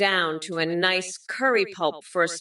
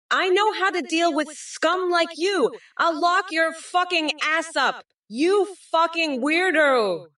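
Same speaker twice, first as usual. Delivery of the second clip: shrill angry rant; 8 semitones higher than usual. Acted. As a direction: pitch jumps up as the anger boils over. Escalating rant at Trump.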